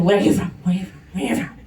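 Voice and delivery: repeated mocking questions. Parodying strangers who keep asking where she's from. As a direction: run the question up and down the scale. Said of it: "gonna ask you".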